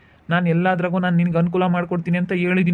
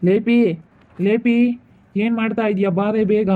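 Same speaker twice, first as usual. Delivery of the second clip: impatient raised summons; calling out; 4 semitones higher than usual. Acted. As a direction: call her name across the house. Uncle calling her from bed.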